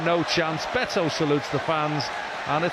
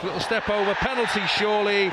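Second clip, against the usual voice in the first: higher pitch, climbing to a cry; excited appeal; 4 semitones higher than usual. Real, not acted. Commentator sees the foul in the box, excited and high. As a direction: call for the penalty, then confirm it in triumph. Penalty appeal, then given.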